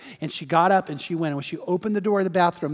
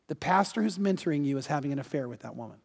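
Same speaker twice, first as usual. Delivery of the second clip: soft, lower-toned retelling of a divine message; voice from God; 3 semitones lower, 5 dB quieter, faster than usual. Retold or imitated. God reveals a secret to the praying woman, hushed. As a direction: deliver the revelation quietly, without force. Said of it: "there's a voice".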